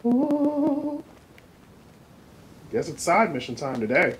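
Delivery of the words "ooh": high, sustained "ooh"; drawn-out ooh. Real, not acted. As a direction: let out a long, high-pitched ooh. Player reacts to the game.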